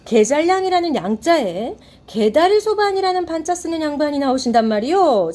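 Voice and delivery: mocking servant Malttugi. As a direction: declaim it like a mask-play servant mocking nobles. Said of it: "말뚝이가 조롱을 하죠". (조롱하는 말뚝이의 연극조 낭독)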